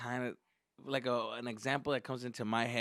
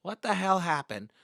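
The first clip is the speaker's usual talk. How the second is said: louder, raised, puzzled voice; confused teachers; 4 semitones higher, 8 dB louder than usual. Retold or imitated. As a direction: imitate teachers sensing something is wrong. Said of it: "like, confused".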